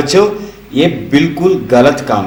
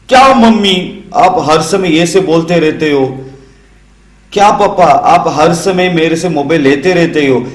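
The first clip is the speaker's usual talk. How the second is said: put-on whiny child; 3 semitones higher than usual. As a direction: complain like a sulky child. Child whining back at parents. (शिकायत करता बच्चा, हल्की नकल)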